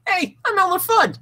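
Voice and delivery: high cartoon hunter voice; Elmer Fudd voice. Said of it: "I'm the best at impressions".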